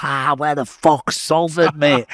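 a hint of a jeering Geordie, loud and slow; mock a Geordie inmate shouting across, slowed; Geordie accent. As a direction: Geordie prisoners taunting a newcomer. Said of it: "You know these Geordies".

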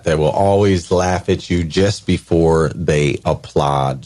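always stressed, slow and weighty; slow emphatic repeat. Shown as a demonstration. Repeating the guest's line slowly, with stress on always. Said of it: "Super, super strong".

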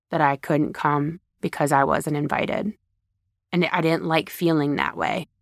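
mean every word, gently; sincere vulnerable admission. Retold or imitated. Speaker showing how to tell a loved one real feelings, sincere. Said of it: "have real emotion".

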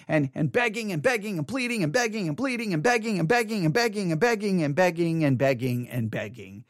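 running repetition that gradually sinks in pitch; relentless begging. Retold or imitated. Preacher recalling nights alone begging God, relentless repetition. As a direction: chant it on and on until it winds down.

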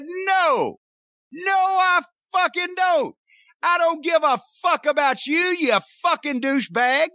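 furious, loud and high, yelling at the crowd; angry shouting. Retold or imitated. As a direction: scream it at the gawkers in full rage. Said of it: "it was much louder than what I am recreating".

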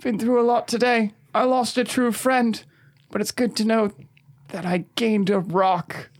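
understated acted sorrow; Johannes, tearfully brave. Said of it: "One tear goes down Johannes's cheek".

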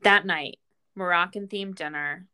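usual speaking voice

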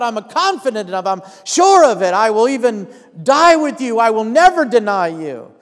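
emphatic, mildly acted pledge; confident vow. Peter vowing loyalty to Jesus, confident and emphatic. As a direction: swear it with bold certainty.

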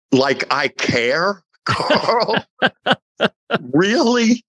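can't believe he'd even worry about it; incredulous delight. Retold or imitated. Telling Carl he'd happily hide his face, delighted disbelief. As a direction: pitch leaps way up, giddy disbelief.

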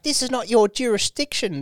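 high, whiny mock protest; whiny woman voice. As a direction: imitate a shrill complaining woman. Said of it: "stupid bitch that was just like".

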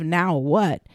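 flat, low "Now what?"; sighing "Now what?" at a dead end; deflated, weary. Shown as a demonstration. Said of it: "But instead of".

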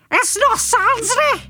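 high-pitched, menacing Scouse villain; aggressive growl. A narrator's reading. Bad guy rings narrator to make threats, aggressive growl. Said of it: "A masculine voice growls aggressively".

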